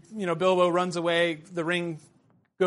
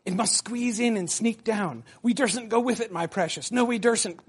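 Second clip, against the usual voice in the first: Gollum whispering; 4 semitones higher than usual. Acted. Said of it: "he whispered".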